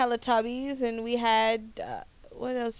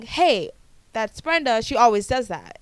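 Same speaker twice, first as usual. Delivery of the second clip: louder, mock listener recognition; imagined listener exclaiming; 7 dB louder than usual. Listeners recognising the podcaster by her intro, imagined exclamation. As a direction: call it out as a pleased listener would.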